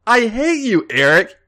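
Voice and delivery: loud, high groaning complaint; drunken groan. Acted. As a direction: groan it out as you hit the bar. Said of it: "she groaned".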